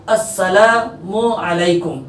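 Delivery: अस्सलामु अलैकुम slowly, mu then a clean ain; careful salaam. Shown as a demonstration. Teacher modelling correct अस्सलामु अलैकुम for pupils. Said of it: "मीम के बाद ऐन है".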